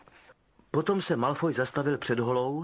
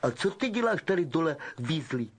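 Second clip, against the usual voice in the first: mocking question; Malfoy jeering at Percy; sneering; 3 semitones higher than usual. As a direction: sneer at the prefect. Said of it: "ušklíbil se".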